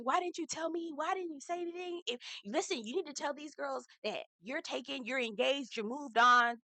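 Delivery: a hint of Taylor's tearful pleading; imitating tearful pleading. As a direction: mimic Taylor crying as she begs. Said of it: "Taylor is crying".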